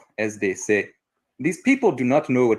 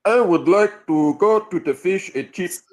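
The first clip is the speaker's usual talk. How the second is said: slow, higher-pitched mock London accent; 7 semitones higher, slower than usual. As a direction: have a drawn-out go at a London accent. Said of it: "give us your best London accent".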